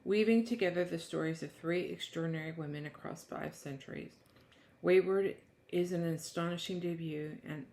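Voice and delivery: measured book-blurb reading voice. Acted. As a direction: read it like back-cover copy. Reads the book blurb aloud.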